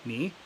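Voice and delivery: "Ni" with a rising tone; short demo "Ni", gliding upward; second tone. Shown as a demonstration. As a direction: lift the pitch through "Ni". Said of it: "that ni becomes a second tone".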